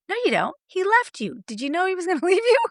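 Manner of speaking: challenging. Retold or imitated. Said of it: "And I'll say".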